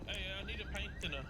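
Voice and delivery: metallic, tinny voice. Real, not acted. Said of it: "why did I say that like a metallic?".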